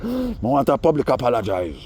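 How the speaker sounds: hammed-up apology demand; imitating Fantan. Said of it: "That's exactly how he said it too".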